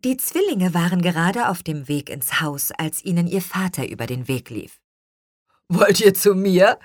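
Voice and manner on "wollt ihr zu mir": louder, cheery father's question; jolly, raised-voice greeting; good-humoured call. A narrator's reading. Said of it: "rief er gut gelaunt".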